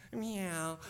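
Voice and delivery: high, little mock meow; a weak kitten's meow, trying to be scary; tiny cub meow. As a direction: Simba trying to roar at the hyenas, a tiny meow. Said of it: "they come a little closer".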